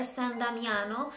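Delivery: quick Italian accent on the name. Shown as a demonstration. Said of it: "então eu disse com sotaque italiano".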